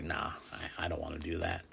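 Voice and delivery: quiet. Retold or imitated. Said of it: "I'm wondering if Brock's like".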